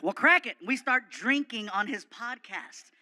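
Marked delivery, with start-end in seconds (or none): 0.0-0.6 loud, barking tough-guy voice; gruff Stone Cold voice. Retold or imitated. Wrestler calls to Fluffy from his door, loud gruff bark. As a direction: play the brash wrestler calling out. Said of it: "he goes".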